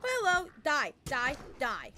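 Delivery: loud gamer yell; game shout. Real, not acted. Gamer yelling at the screen mid-fight, loud.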